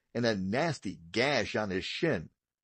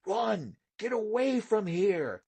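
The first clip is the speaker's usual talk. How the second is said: urgent inner whisper; 9 semitones higher, slower than usual. A narrator's reading. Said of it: "the little voice whispered in Paul's mind".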